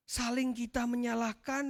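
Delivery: usual speaking voice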